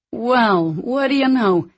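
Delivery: impressed in spite of himself; grudging respect. A narrator's reading. Hank reacting to news of the downed bomber, grudgingly impressed. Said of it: "his voice betraying a sliver of respect".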